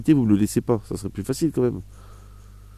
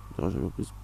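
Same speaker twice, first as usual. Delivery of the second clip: "Tu n'iras jamais en prison" dropped low and soft; quiet emphatic repeat; 6 semitones lower, 10 dB quieter, much faster than usual. Real, not acted. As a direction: repeat "Tu n'iras jamais en prison" much softer and lower, for weight.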